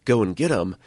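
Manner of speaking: half-hearted yell of warning; retold yell. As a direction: imitate a bystander yelling at police, held back. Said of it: "he's yelling at police officers saying".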